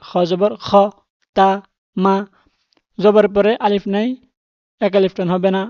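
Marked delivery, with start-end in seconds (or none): 0.1-2.2 same spelling, clipped to just the syllables; quick spelling. Shown as a demonstration. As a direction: rattle the letters off quickly. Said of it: "তাড়াতাড়ি". (দ্রুত বানান করে পড়া)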